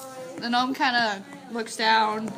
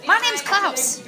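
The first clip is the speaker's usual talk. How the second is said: gnome introducing himself; 7 semitones higher, slower than usual. Acted. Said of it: "the gnome says".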